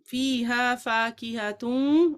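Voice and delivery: very slow, drawn-out recital; prompting recitation. Shown as a demonstration. Teacher cueing students to continue the verse, drawn out. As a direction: stretch each syllable to cue the class.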